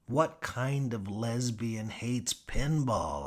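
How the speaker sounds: incredulous. Acted. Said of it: "I ask incredulously".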